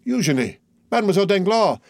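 high-pitched astonished cry; stupefied exclamation. A narrator's reading. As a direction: exclaim in sheer amazement. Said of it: "exclaimed Andrea, stupefied".

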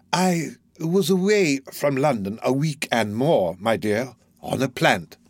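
put-on slow, oily old man's voice; wheedling old Fagin. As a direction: coax him slowly, like a sly old fence. Fagin's voice in narration.

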